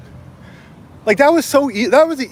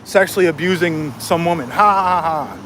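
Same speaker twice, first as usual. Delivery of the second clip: mock laughing; 3 semitones lower than usual. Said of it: "They're like, all laughing".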